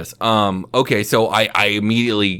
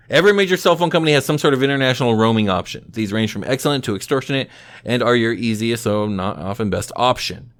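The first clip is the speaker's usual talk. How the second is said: reading aloud. Real, not acted. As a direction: read it off the page, starting briskly. Reads a roaming article aloud.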